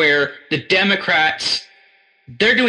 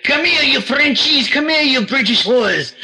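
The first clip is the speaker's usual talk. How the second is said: higher, slower mock taunt, laughing through it; hammed-up colonizer; 8 semitones higher than usual. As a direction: call them over like a cartoon villain, half laughing. Mocking colonizers calling out enemies.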